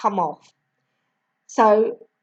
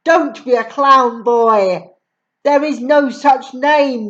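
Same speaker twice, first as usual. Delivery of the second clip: scolding headmistress; 4 dB louder than usual. Acted.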